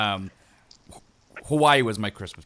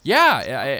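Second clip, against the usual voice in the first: enthusiastic yes; 4 semitones higher, 6 dB louder than usual. Real, not acted. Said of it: "I love the total contradiction of, like, vocal tone".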